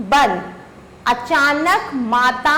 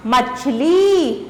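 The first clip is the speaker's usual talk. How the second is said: मछली drawn out slowly; slow model reading; much slower than usual. Shown as a demonstration. Teacher blending the spelled letters for pupils. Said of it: "बड़ी की मात्रा".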